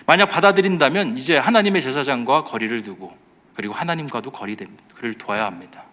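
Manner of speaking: ordinary talk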